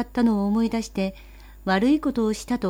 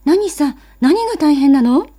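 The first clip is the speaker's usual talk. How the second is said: put-on older sister, louder and higher, impatient; sharp sister; 7 semitones higher, 8 dB louder than usual. Sister woken at night, demanding loudly what is wrong. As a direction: snap the question at the little brother.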